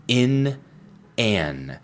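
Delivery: "In" and "an" as a clear contrast; teacher setting "In" against "an"; contrast the endings. Shown as a demonstration. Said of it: "En presente, in al final".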